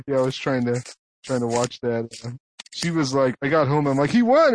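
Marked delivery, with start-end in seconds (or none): 4.1-4.5 higher, triumphant little announcement; retold excitement. Husband telling wife the news on getting home, excited. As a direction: announce the win, acting it out.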